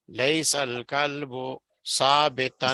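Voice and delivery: broken-up audio dropout; tape dropout. Real, not acted. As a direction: voice cutting out on the line. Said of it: "سر جی، آپ کی آواز کٹ گئی تھی".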